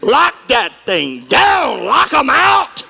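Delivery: shouted commands, very slow at the end; preaching shout. Acted. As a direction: bark it out and stretch the last words.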